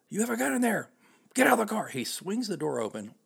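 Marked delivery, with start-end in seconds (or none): 0.1-1.9 high, loud barked command; cop yelling. Retold or imitated. Cop ordering driver out of the truck, loud. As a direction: order him out, voice raised high.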